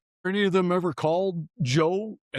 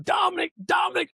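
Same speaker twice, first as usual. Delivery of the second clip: coach yelling; 13 semitones higher than usual. Retold or imitated. Hockey coach yelling at a player on the ice. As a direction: shout the name to get his attention. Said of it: "he's yelling".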